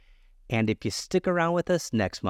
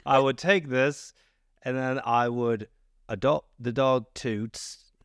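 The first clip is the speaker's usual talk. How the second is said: put-on failed Maine accent. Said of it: "You're talking very British".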